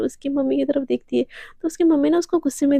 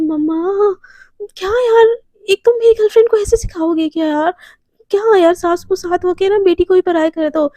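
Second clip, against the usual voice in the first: higher, louder whining protest; whiny complaint; 5 semitones higher, 4 dB louder than usual. Acted. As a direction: complain like an annoyed teen. Daughter complains to mother.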